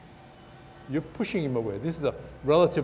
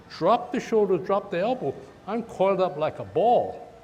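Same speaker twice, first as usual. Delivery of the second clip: coaching call; 5 semitones higher, 3 dB louder than usual. Shown as a demonstration. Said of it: "I come from here".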